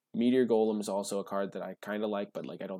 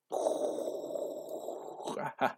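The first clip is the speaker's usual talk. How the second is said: long breathy, voiceless laugh; 5 semitones higher than usual. Real, not acted. Player delighted by another card, breathy laughing. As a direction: laugh mostly on air, helplessly.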